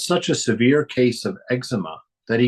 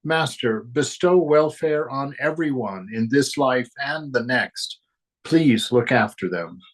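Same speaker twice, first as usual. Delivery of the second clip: prayerful; 3 semitones higher than usual. Acted. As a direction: pray it gently and slowly. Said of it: "Then she prayed".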